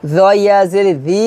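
জি with a thin dhal-like consonant; thin, unrounded "dhee" for জি; wrong light sound. Shown as a demonstration. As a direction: say য ইয়া জের জি quickly, ending light. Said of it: "হবে না".

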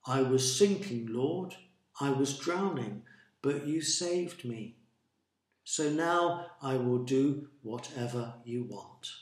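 mild, measured praying voice; prayer. A narrator's reading. Jonah thanking the Lord from the fish, praying. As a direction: pray it simply, pausing between phrases. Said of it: "said a prayer".

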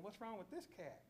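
a hint of a confused lion thinking aloud; puzzled lion. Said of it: "the lion's gotta be thinking".

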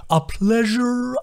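slow delighted turtle voice; overjoyed sing-song. A narrator's reading. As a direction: gush with glee.

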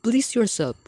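high, whispery careless pig; cheeky little pig. A narrator's reading. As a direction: toss it off, unbothered. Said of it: "called the third little pig".

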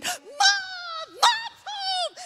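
very high, slow stretched squeal of "Mom"; hammed-up delighted cry at mom's return; overjoyed kids. Kids greeting mom with a stretched high squeal. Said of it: "They went".

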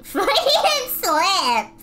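laughing. Real, not acted. Laughs at own slip.

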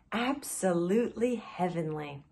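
blissful sigh. Acted. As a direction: stress on absolutely, softly sighed. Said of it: "he sighed".

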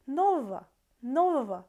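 "Нового" said quickly, ending blurred to -ава; fast reduced ending. Shown as a demonstration. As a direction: tumble through "нового" with an unclear final vowel. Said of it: "like, really fast".

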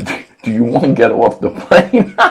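laughing wife's question; asked through a giggle. Retold or imitated. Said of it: "she says".

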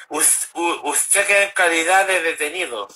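lisped s in "usted" and "calidad"; "usted queda en calidad de detenido" with a lisped s. Retold or imitated. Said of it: "hablando con ceseo".

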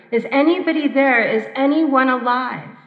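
men calling out near the wreck. Retold or imitated. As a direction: shout to find survivors. Rescuers calling out.

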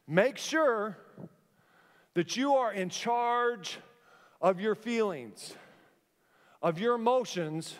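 slow "Make sure that you are in charge", with long pauses between phrases; spaced out, leaning on "you"; emphatic pauses. Real, not acted. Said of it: "repeated slowly with pauses".

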